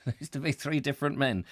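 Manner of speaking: laughing through a Geordie line, fast; giggling at a failed Geordie accent; laughing at own Geordie. Retold or imitated. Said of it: "crap at the accent".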